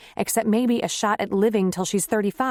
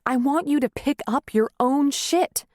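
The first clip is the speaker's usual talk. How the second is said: angry tirade; 5 semitones higher than usual. Acted.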